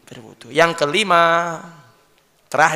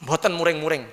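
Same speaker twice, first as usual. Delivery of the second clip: humble official answering; 5 dB quieter than usual. Acted. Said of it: "Hei, kepala dinas".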